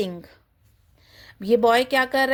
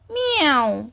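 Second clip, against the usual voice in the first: cat meow; 4 semitones higher, slower than usual. Shown as a demonstration. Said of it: "cat की sound".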